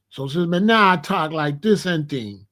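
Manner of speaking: light Jamaican patois lilt; Jamaican accent. Shown as a demonstration. Showing how he talks Jamaican, light Jamaican accent. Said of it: "You see how I said?".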